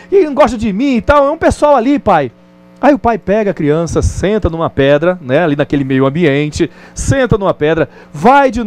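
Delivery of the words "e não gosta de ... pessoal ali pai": put-on complaining child. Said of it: "Criança é assim mesmo".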